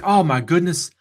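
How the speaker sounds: mock-dismayed trader complaining about a stop loss; frustrated trader. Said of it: "and you're gonna say".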